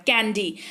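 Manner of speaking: "कैंडी" ending on a clear ee; final ee sound. Shown as a demonstration. Teacher pointing out the last sound, "कैंडी" ending in ee. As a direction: finish "कैंडी" with a long ee. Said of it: "ई last में उच्चारण हो रहा है".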